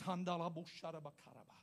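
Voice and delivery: soft, low prayer tongue; speaking in tongues. Shown as a demonstration. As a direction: let the tongues roll out low. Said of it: "about to show you what happens to me".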